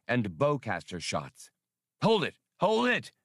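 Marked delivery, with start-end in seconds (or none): 2.0-2.3 high, sharp halt command; sharp order. A narrator's reading. Han orders the others to stop firing, commanding. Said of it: "Han ordered". 2.6-3.1 much higher, insistent halt command; insistent order. A narrator's reading. Han repeats his order to stop firing, high and insistent. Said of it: "Han ordered".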